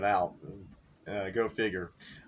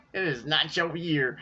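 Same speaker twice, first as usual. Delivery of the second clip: a gleeful taunt, said through laughter and higher; laughing taunt; 5 semitones higher than usual. Real, not acted. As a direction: rub it in to rival fans while still laughing. Repeats the taunt while laughing.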